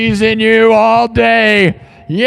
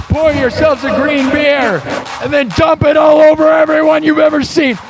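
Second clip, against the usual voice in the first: hype shouting; 5 semitones higher than usual. Acted. Hyping Saint Patrick's crowd.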